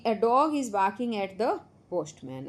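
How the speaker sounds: slow, clear reading of the sentence; model sentence reading. Shown as a demonstration. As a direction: read it out slowly for the class to copy. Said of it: "ऐसे पढ़ेंगे हम". (बच्चों के लिए धीरे पढ़ा गया वाक्य)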